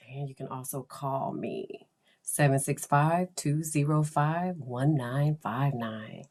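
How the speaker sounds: sexy voice. Pretend. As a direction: purr the number seductively. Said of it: "That's my sexy voice".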